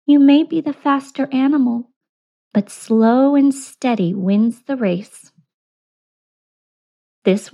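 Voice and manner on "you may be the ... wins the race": wise tortoise. Acted. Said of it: "she remarked".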